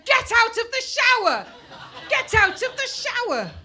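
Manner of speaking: high loud banging-on-door yell; mother hammering on the bathroom door, yelling; shouting through the door. Retold or imitated. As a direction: shout at the kid to get out. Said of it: "hammering on the door, going".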